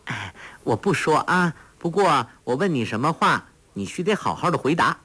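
a hint of a coaxing smile in the voice; light smiling tone. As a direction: promise sweetly with a smile. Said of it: "黄蓉笑道".

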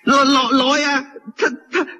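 frightened pot seller tripping over his words; terrified stammer. Acted.

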